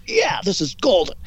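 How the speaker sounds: mock cheer from another room; gloating producer. Producer in the other room thrilled with the footage, mock gleeful. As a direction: imitate a delighted producer, stretching the first word. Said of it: "I can hear him in the other room going".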